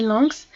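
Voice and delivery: "lungs" with the G barely touched; "lungs", G melted into the nasal; soft G. Shown as a demonstration. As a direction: say "lungs" without pressing the G. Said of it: "on n'appuie pas sur le G".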